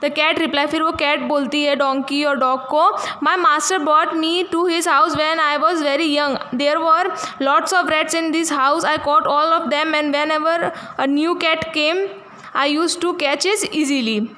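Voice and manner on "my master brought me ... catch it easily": put-on slow, careful reading aloud for young pupils; slow story reading. A narrator's reading. Teacher reading the English story to her class, slow and careful. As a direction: read each word out slowly for the class.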